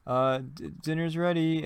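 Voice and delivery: lightly acted cook calling out; mock dinner call; announcing dinner. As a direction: raise the voice a little to call someone to eat.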